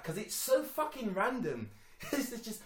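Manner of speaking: real giggle through the words; chuckling. Real, not acted. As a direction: laugh at how random it is. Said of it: "I chuckled at the".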